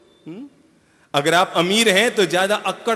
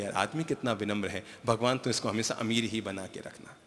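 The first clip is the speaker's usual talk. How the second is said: soft praise; 6 semitones lower, 10 dB quieter than usual. Retold or imitated. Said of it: "तो लोग कहेंगे".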